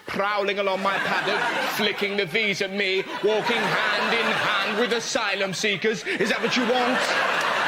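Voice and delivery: slowing, rising into an outraged mock plea; hammed-up fox hunter rant. Fox hunter pleading against foxes, hammed-up rising outrage. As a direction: ham up the horror of foxes everywhere.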